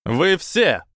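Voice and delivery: high, loud command; commanding shout. A narrator's reading. Auror Komodo orders everyone, commanding shout. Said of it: "крикнул Аврор Комода командирским голосом".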